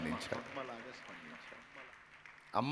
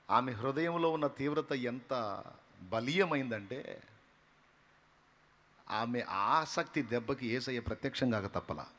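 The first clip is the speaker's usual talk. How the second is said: ordinary talk, nothing marked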